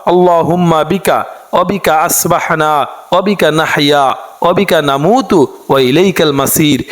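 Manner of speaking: slow, measured Arabic prayer chant; dua recitation. Acted. Teacher reciting the morning dua to listeners, slow chant. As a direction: draw each phrase out like a prayer.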